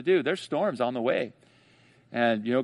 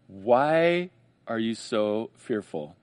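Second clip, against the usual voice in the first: slow, low, gentle teacher's question; gentle Jesus question; 3 semitones lower, much slower than usual. Retold or imitated. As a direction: ask it slowly, like a patient teacher. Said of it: "he says in verse forty".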